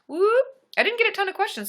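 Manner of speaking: high, loud cheer; excited whoop. Real, not acted. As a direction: celebrate out loud. Cheering then explaining.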